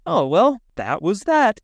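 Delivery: hammed-up huffy resignation; mock hurt. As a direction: act out a wounded overreaction. Acting out his hurt reaction.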